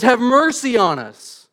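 loud, high, drawn-out preaching; crying out. Shown as a demonstration. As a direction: cry it out with slow, ringing force. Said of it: "crying out at the top of their lungs".

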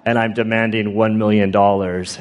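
lightly voiced computer kidnapper; mock ransom demand, evenly intoned; a hint of menacing robot monotone; imitated scary voice. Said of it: "like this scary voice".

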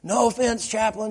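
high, loud indignant outburst; retold furious officer. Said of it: "she's just going off like the Tasmanian devil".

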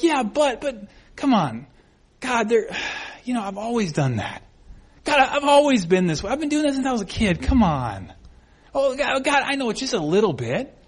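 mock whiny bargaining; pleading excuses. Believer making excuses to God, pleading. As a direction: wriggle out of it with sighs and protests.

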